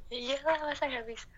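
can't stop giggling; laughing fit between words; hysterical laugh. Real, not acted. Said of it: "Kenapa gue nggak bisa berhenti ketawa?". (ketawa ngakak tak terkendali)

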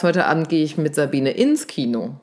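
"ins Kino" lifted at the end with a rise; stress on ins Kino. Shown as a demonstration. Coach showing a shifted meaning, stress on "ins Kino". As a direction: save the emphasis for "ins Kino". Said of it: "Oder wenn du sagst".

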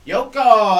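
Yoko! shouted loud and high; joyful shout. Pretend. Comic calling out the name Yoko, loud and high. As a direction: call out the name like a cheer.

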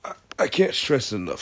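strained voice mid-stretch; stretching while talking. Real, not acted. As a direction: talk through a big stretch. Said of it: "Sorry, I'm stretching".

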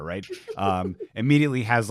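ordinary talk

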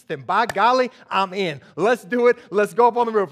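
loud, building pep-talk energy; rallying enthusiasm. Acted. Friend rallies the others to act.

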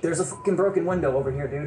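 calling out to the others; yelling across the room. Real, not acted. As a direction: raise it so the room hears. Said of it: "I was just calling it out".

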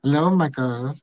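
"Micah" with an added "a", mock Asian accent; imitated Asian accent. Man imitating women greeting him, Asian accent. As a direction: lightly put on an Asian accent. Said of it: "deep Asian accent where they're like".

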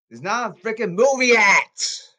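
shouted high and loud in frustration; furious outburst at the players; angry shout. Real, not acted. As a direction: yell it out, fed up.

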